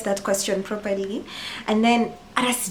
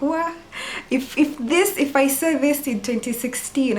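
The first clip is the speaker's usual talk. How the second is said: higher-pitched wow at seeing herself; retold amazement; 5 semitones higher than usual. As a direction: react as your startled younger self, pitched up. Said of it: "I was just like".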